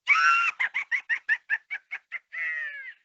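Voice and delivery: high, loud evil cackle; witch cackle. Shown as a demonstration. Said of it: "Wicked Witch of the West".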